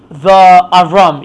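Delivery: the Avram drawn out slowly, the stressed; slow demo of wrong form. Shown as a demonstration. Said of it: "You don't say".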